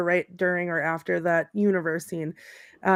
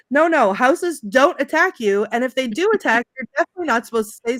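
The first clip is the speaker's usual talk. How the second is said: higher, mock-panicked protest; imitated freak-out; 4 semitones higher, 3 dB louder than usual. Lewis protesting after the house acts up, mock freak-out. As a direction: protest in a mildly hammed-up panic. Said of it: "Lewis is freaking out".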